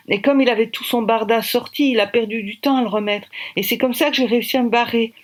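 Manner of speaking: put-on a young woman recounting how she got away; girl's voice, relieved and proud; young girl telling her escape.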